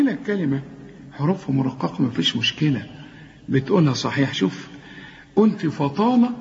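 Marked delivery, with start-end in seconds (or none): 5.7-6.3 raised, thick fa and la in فطال; two wrong heavy letters. Retold or imitated. Teacher quotes student's two errors, heavy faa and lam in فطال. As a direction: imitate the mistake, heavy فطال. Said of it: "غلطت في حرفين".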